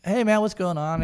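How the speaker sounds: lightly animated hello; acted greeting. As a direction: re-enact hailing a buddy. Acts out greeting at the bar.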